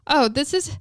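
mock British accent. Friend's Bridgerton-style British daughter, lightly mimicked. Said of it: "What is this pronunciation?".

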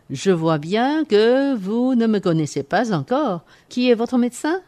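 pompous quack doctor, grandly declaiming; haughty aristocratic french. Acted. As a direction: lord it over the patient like a boastful doctor. Doctor examines patient.

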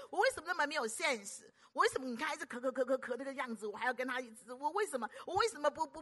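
a hammed-up inner voice of guilt; self-reproach. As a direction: berate yourself in mock despair. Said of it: "各位会不会自责".

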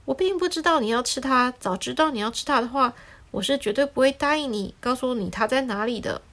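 a touch of dismay at the news; the lemon mildly dismayed at the sparrow's plan; surprised. Acted. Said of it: "柠檬先生很惊讶".

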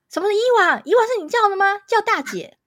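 high, loud mock scolding; angry scolding. Friend scolds the boy for calling her Eva, imitated loudly and angrily. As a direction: bark at him like an offended big sister's friend. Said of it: "突然很生气的".

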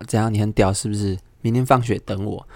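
a hint of a schoolyard thug; mock thug threat. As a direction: play the bully squaring up. Thug older brother threatening.

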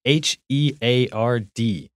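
letters said one by one, slowly; spelling it out. Shown as a demonstration. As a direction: spell the word heard letter by letter. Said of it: "Duncan帮我们拼一下这个heard".

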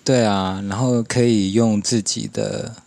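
ordinary talk

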